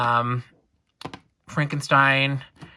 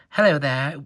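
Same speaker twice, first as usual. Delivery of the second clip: put-on British accent; 4 dB louder than usual. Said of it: "I'm making them British".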